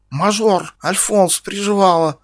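high, loud insults hurled one by one; hateful shouting. Acted. Ксюша в ненависти выкрикивает оскорбления Стасу. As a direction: spit each insult with hatred. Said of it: "выкрикивала Ксюша с ненавистью".

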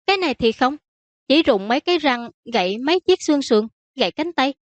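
high-pitched daughter listing matter-of-factly; downplaying princess. Princess listing the victim's injuries to her father, downplaying. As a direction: pitch up and minimize each item.

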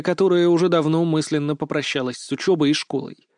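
usual speaking voice

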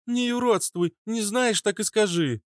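sharp cutting off. Acted. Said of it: "оборвала её Фитилёк".

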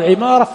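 عمارة with a short i first, ʿimāra; عمارة as ʿi-MAA-ra; kasra on ayn. Shown as a demonstration. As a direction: put an i vowel on the ayn of عمارة. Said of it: "فهو بكسر ماذا".

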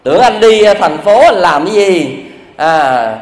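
mock-tearful scolding, lightly acted; jealous accusation. Wife scolding husband over the mirror, mild mock-tearful reproach. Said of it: "khóc bù lu bù loa".

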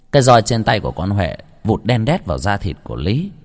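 plain reading voice

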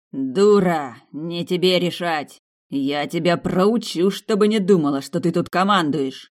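loud, slow furious roar; bestial bellow. Acted. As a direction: roar it at her like an enraged animal. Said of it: "рявкнул, как животное". (взбешённый хозяин рычит на служанку, громко и медленно)

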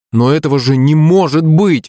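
put-on high, protesting boy's cry; disbelieving exclamation. A narrator's reading. Boy told he has a brother, exclaiming in disbelief. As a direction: exclaim it high, refusing to believe. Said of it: "воскликнул Коленька".

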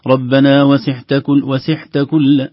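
"وسعت" with a breathy ain close to ha; wrong pronunciation. Shown as a demonstration. Teacher shows the breathy ain error, chanted. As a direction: let breath run through the ain in "وسعت". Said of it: "لو جرى النفس نقول".

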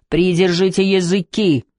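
slow, high-pitched roar, mildly done; angry roar. A narrator's reading. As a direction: roar slowly at the servants, held back. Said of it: "взревел Филипп Чень". (сдержанно изображённый гневный рёв)

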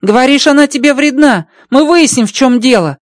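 high, bright-pitched alien voice, amazed; Rocky's alien voice. Acted. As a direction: play the little alien engineer, delighted. Rocky insists.

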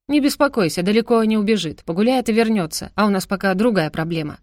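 ordinary delivery

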